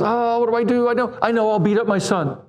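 mocking a panicky God; mock flustered God. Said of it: "And so God goes".

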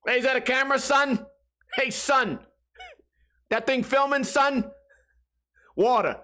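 high-pitched mock New York street talk; badly faked New York accent. Cop spotting a camera, bad New York accent. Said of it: "how to do a New York accent".

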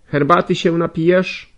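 a bossy servant prodding him; servant woman's voice. Acted. Nastazja questioning the sick young man, high and loud.

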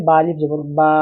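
বা stretched to one alif length; drawn out vowel. Shown as a demonstration. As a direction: hold the vowel of বা a beat longer. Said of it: "একটু টানতে হবে". (বা-র স্বর এক আলিফ টেনে)

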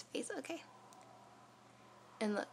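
demonstrating flossing at teeth; talking with fingers on lip. Real, not acted. Seen 2: Fingertips press lower lip down over braces throughout the words.

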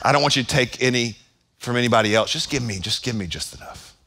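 small, shrinking voice asking for just enough; mock meek prayer. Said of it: "it sounds selfless".

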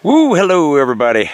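wake-up cheer to the camera; cheerful greeting. Real, not acted. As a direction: greet the viewers with a happy whoop. Morning greeting to viewers.

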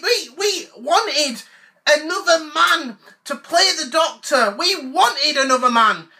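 mock indignant whine. Fan ranting about female Doctor.

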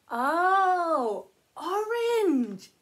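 high, loud puppet cry of orange; squeaky puppet voice. Pretend. Sock puppet naming the fruit, high and loud. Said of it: "you can only talk like a robot".

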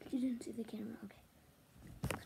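soft secret whisper. Pretend. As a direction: breathe it out, hiding. Hiding, sneaking past camera.

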